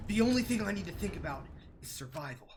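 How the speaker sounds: put-on a touch of heroic anime boy; lightly voiced shonen hero; shonen protagonist voice. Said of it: "I gotta bring out my shonen protagonist voice".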